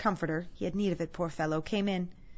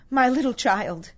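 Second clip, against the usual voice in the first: slow, loud, raised cry of grief; breaking down in grief; 5 semitones higher, 8 dB louder, slower than usual. Acted. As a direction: draw it out as a grieving father. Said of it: "He broke down all at once".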